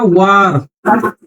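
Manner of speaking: वार slowly, with a long open "aa"; long AA vowel. Shown as a demonstration. Teacher giving an example of big आ, वार with drawn-out "aa". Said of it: "बड़ा आ का जरा कोई बताओ".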